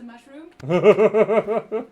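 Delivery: loud, slow laughing wail. Acted. Overdone lament about mushroom.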